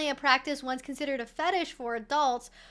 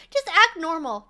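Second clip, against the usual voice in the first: emphatic; 4 semitones higher, 9 dB louder than usual. Real, not acted. Emphatic advice, loud.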